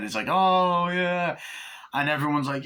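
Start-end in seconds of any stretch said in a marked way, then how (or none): 0.3-1.4 heavy metal dickhead. Retold or imitated. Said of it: "this kind of heavy metal dickhead".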